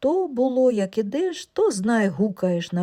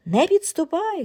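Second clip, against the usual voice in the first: high, shrill warning cry; frightened shout; 9 semitones higher, 3 dB louder than usual. Acted. Wife shrieks at shaved husband, frightened shout. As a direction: keep the stranger away, loud. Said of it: "кричить".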